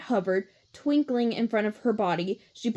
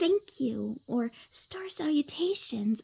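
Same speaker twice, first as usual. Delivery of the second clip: soft, slow, gentle, mild-mannered character voice; 4 semitones higher, 6 dB quieter than usual. Explaining how she voices each character, as soft Cassie voice. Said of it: "she would talk a little softer".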